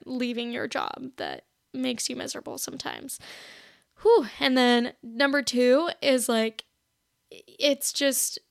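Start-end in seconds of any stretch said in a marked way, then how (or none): 4.0-4.3 high, quick whew; short whooped sigh; relieved exhale. Real, not acted. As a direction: blow out a breath of relief. Catches breath after tearful story.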